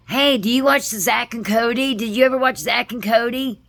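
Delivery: high, loud chirpy questions; upbeat coworker. Retold or imitated. Coworker quizzing her about a sitcom, high and chirpy. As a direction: play the wired, upbeat coworker. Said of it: "This person's always kinda upbeat".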